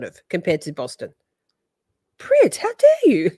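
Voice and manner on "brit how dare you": high, slow, hammed-up "how dare you"; theatrical mock offence at a friend; mock outrage. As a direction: play wounded, drawing it out up high.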